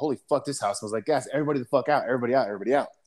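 mock urgent, alarmed, rushed delivery. Retelling how a comrade's eyes got big on smelling gas: imitating an alarmed order. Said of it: "his eyes got real big and was like".

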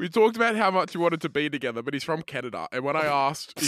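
ordinary delivery

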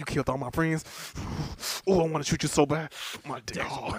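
put-on anime-style character voice. Imagining the scene and acting out Piccolo's line: Piccolo voice. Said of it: "He's like".

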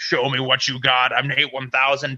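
disguised voice-changer voice. Recalling stepping out of the changing tent before a crowd, imitating a voice changer. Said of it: "I would come out with like a voice changer".

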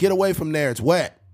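put-on bossy scolding yell. Retelling how a laundromat worker spoke to him: imitating a worker yelling. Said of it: "the kid she was yelling at".

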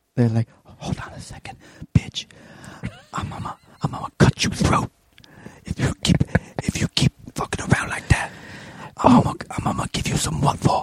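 put-on whisper. Told someone's wife lost her voice, imitating a voiceless Cuban Miami person. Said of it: "Cuban Miami person with no voice".

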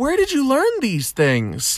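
put-on woman's voice, high and swooping. Acting out a woman at a bar asking a man a question, put-on female voice. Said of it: "That's my female voice".

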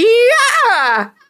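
"yeah" stretched out and very high-pitched. Showing the reaction sound they made themselves: high-pitched yeah. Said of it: "Mine was a high-pitched".

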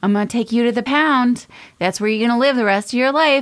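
sugary sweet delivery with lifted tone. Saying mean things to the dogs, in a sweet tone. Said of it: "I say it in a sweet tone so that they don't feel sad".

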